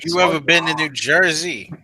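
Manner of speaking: put-on New Jersey accent. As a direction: ask it like a Jersey local. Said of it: "like, that New York accent".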